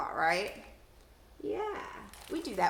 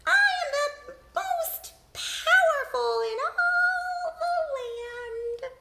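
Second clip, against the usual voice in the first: much higher, loud, slow grand boast; high, loud and slow, a villain's brag; boastful villain; 8 dB louder, much slower than usual. Shown as a demonstration. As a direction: crow it like a pompous ruler. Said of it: "say it in a voice to match who's talking".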